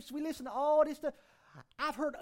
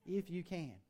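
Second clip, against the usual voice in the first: mock incredulous; 6 semitones lower, 7 dB quieter, slower than usual. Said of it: "in our vernacular today".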